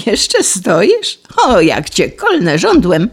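angry mocking bee. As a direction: chase the lazy grasshopper off with scorn. Bee scolds grasshopper.

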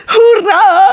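high, loud cry of joy; joyful shout. A narrator's reading. Dedal cries out in joy as he flies, loud and high. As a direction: shout it out with relief. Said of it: "krzyknął uradowany".

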